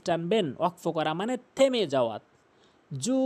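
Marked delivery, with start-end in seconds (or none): 2.9-3.2 জু with the oo held very long; sustained "jooo"; long stop elongation. Shown as a demonstration. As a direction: stretch জু for three alifs. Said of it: "তিন আলিফ টেনে পড়ছি".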